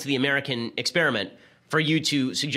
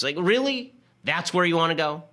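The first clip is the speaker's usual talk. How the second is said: incredulous; 4 semitones higher than usual. Real, not acted. Incredulous at the left's overreach.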